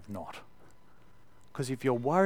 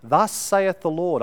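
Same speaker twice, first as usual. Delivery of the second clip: slow, higher, louder pronouncement; prophet's proclamation; 6 semitones higher, 10 dB louder, slower than usual. Retold or imitated. Preacher imitating prophets speaking for God, slow solemn proclamation. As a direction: announce it like an Old Testament prophet. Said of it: "the prophets would say".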